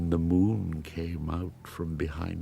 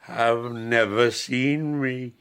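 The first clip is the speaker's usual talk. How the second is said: louder and slowing, rising fear; fearful pleading; 2 semitones higher, 6 dB louder than usual. Acted. The creature tells the blind man his fears, pleading louder. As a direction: plead out your dread.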